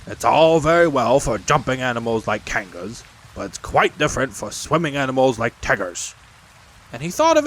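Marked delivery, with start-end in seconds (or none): 0.0-6.1 lightly voiced grumbling creature; Tigger to himself. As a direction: grumble doubtfully, in a light character voice. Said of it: "saying to himself".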